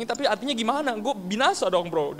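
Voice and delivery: high-pitched mock distraught wail; imitated tearful panic. Crying ex-thug friend asks pastor if he is doomed, mock tearful panic. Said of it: "Dia, dia nangis-nangis".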